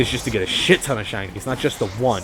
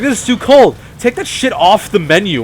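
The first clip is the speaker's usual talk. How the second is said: higher, louder bossy customer; mock demanding customer; 6 semitones higher, 6 dB louder than usual. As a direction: demand it like an entitled diner. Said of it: "And so she was like".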